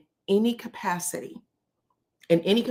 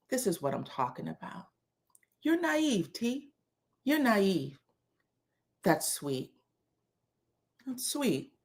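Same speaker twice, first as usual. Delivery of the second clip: soft, restrained imitation of a fed-up husband; dangerously quiet and done with her; quiet menace; 8 dB quieter than usual. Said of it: "the husband from, from the movie about a singing duo".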